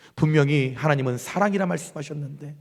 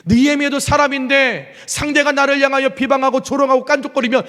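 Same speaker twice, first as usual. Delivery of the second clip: higher and louder, rhetorical questions pressed hard; impassioned preaching; 7 semitones higher, 4 dB louder than usual. Acted. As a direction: preach it with rising fire.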